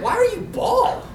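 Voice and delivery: high, slow, laughing blurt; blunt question. Retold or imitated. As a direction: blurt it out tactlessly, half laughing. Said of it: "I was like".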